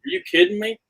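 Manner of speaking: high incredulous yelp of surprise; imitating a stunned buddy, voice jumping up; retold disbelieving squeal; shocked disbelief.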